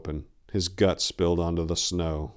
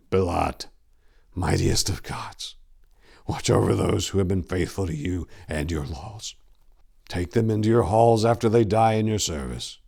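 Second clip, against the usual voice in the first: prayer to a god for his brother; prayer aloud. A narrator's reading. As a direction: pray over the dying boy. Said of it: "he began to pray, this time out loud".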